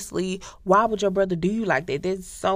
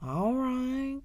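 bitter sarcasm; 3 semitones higher, 5 dB quieter than usual. Retold or imitated. The brother learning it was his own brother, quiet bitter sarcasm. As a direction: let the betrayal sink in mockingly. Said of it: "And he was like".

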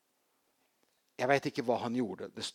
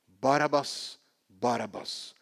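crowd shout; 5 dB louder, slower than usual. Retold or imitated. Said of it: "han hørte kanskje bare ordet".

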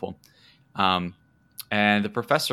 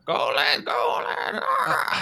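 high, straining cries over the struggle; yelling for help; much slower than usual. Acted. Captured creature's handler calling to the professor, high desperate yelling. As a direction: call out desperately as you're dragged off. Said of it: "kind of yelling for, uh, the professor".

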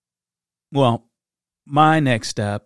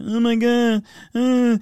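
much higher, yelping excited cry; Kevin Hart impression; 10 semitones higher than usual. Comedian impression of a panicked parent, high yelp. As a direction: do a shrill comic freak-out. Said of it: "my best impression of Kevin Hart".

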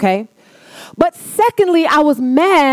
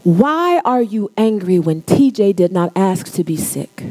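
still small voice. Acted. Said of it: "the still small voice of God said".

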